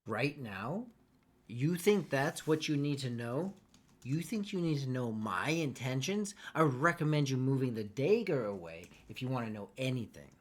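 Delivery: scornful hostage taunting her captor; defiant captive. Acted. DM plays the captive mocking the knife holder. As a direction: taunt the one holding the knife, steady.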